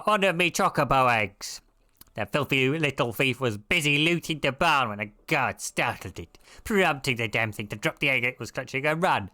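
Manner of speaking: lightly voiced grumbling game character; a hint of a gruff villager telling of trouble; quest-giver character. Villager reporting a stolen chocobo egg, lightly acted character voice.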